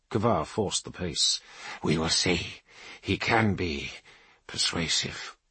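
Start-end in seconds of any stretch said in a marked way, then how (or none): 1.8-5.4 low, slow, grim warrior priest; stern Rune Priest. Acted. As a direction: speak low and heavy, with authority. Kavar's low held voice.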